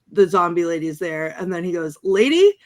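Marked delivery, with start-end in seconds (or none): 2.0-2.5 high, loud acted call to a lady; mock-polite address. Ash confronts the zombie lady in the store, mock-polite.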